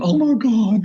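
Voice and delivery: high-pitched mock panic; retold alarm. Diver sees the board caught on his cage, alarmed.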